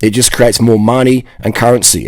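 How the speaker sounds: ordinary talk, nothing marked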